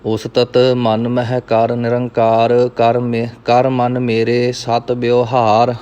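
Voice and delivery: measured Gurbani recitation, evenly pitched; scripture recitation. Acted. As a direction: recite verse by verse, drawing out line endings. Recites scripture between explanations. (ਸਹਿਜ ਨਾਲ ਗੁਰਬਾਣੀ ਪਾਠ)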